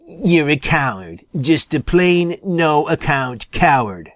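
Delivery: understated contemptuous snap; a hint of a skunk's scorn; mildly acted angry insult; snapping. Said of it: "snapped Jimmy".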